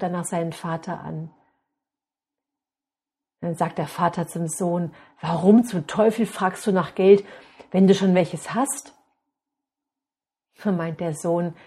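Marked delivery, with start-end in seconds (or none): 5.2-8.9 angry father. Acted. Father angry at hidden money.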